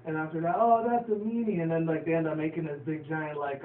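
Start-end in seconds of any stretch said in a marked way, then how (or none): 0.6-1.6 high, loud mock indignation; hammed-up kid voice; squeaky cartoon outrage. Retold cartoon line.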